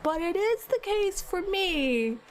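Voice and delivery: explaining to her partner why her food is hers; retold exasperation. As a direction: spell it out, mildly exasperated. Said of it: "It was exasperated".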